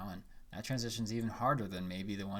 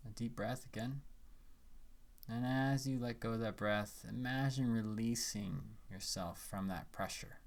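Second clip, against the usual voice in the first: calm guiding voice with long pauses; unhurried phrases, leaving room to breathe; guided meditation; 4 dB quieter than usual. Acted.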